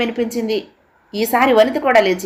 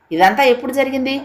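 higher, sudden raised question; the son blurts out his shock, voice raised; 6 semitones higher than usual. A narrator's reading. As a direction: voice rising before he can stop it. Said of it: "స్వరం హెచ్చింది".

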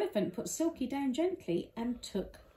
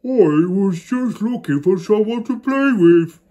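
sadly; 15 dB louder than usual. Acted. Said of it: "He said it sadly".

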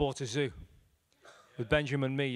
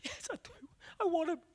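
lightly voiced woman; 13 semitones higher, 3 dB quieter than usual. Woman accepts Jesus.

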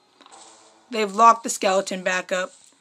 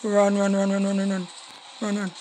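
hushed urging; 3 semitones lower, 8 dB quieter than usual. Real, not acted. Hiding from enemy.

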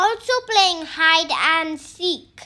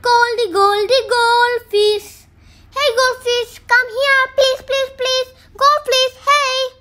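calling to the goldfish, pleading; 3 semitones higher, 3 dB louder than usual. Real, not acted. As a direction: coax the fish over, louder. Child calling fish at aquarium.

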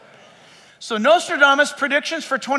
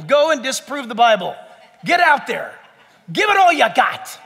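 rallying challenge. Retold or imitated.

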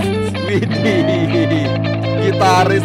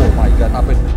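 surprised; 7 semitones lower, 6 dB louder, faster than usual. Real, not acted. Chaos in game.

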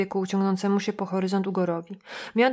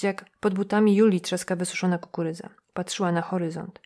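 plain reading voice

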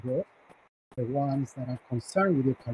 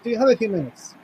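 retold polite request, pitched up; 7 semitones higher, 3 dB louder, faster than usual. Boss at the office door asking for time, polite. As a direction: ask courteously, lifting the voice. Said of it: "But in a polite voice".

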